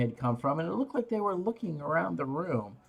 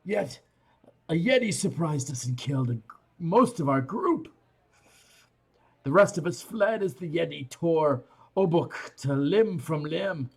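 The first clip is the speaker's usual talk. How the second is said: speaking Dwarvish; 3 semitones higher than usual. Acted. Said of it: "switching over to Dwarvish".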